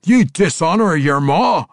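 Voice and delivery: loud, high, outraged dwarf; threatening dwarf rebuke; scolding. A narrator's reading. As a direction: scold him across the table. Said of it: "Ragged Dane scolded".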